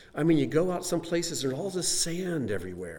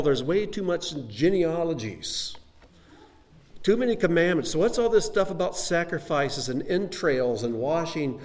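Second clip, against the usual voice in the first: mock critic; 3 semitones higher than usual. Preacher mocking someone trimming the Bible, scoffing. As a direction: lightly sneer at all the detail.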